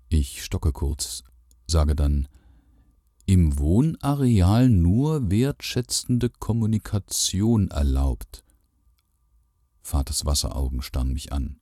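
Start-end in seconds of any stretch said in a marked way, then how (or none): 3.3-8.4 slow, singsong, higher ad read; mock ad reading. A narrator's reading. Son teasing father with a fake ad, mock solemn. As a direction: read it out like a pompous notice.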